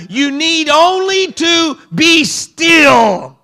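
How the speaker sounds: steady the frightened crowd, rising to a shout; Moses commanding. Retold or imitated. Moses to the frightened people, firm then shouting. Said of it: "Moses answered the people".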